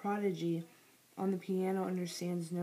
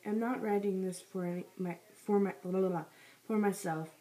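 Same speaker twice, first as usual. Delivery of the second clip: talking while chewing gum. Real, not acted. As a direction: read around a wad of gum. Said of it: "I have gum in my mouth".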